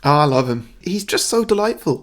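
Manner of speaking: insincere gushing, pitch lifted on the second sentence; grinding-teeth praise. Acted. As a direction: praise him as if through gritted teeth. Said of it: "like you were grinding teeth".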